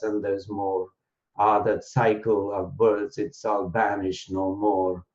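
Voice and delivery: slow, metrical verse reading; measured beat on every third syllable; anapest poem recital. Shown as a demonstration. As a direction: recite it as metered poetry, easing down at the close. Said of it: "in a poetic form".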